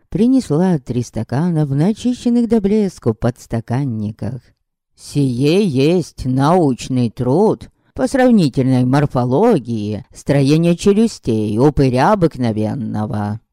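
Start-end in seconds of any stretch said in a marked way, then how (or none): 4.9-13.4 slow, self-important and lower; pompous. Acted. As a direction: lecture it grandly, pleased with himself. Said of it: "важно произнёс".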